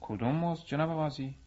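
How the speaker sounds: sly, composed reply to the judge; coolly. A narrator's reading. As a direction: ask it as if nothing happened.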